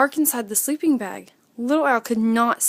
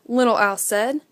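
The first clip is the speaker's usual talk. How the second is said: usual speaking voice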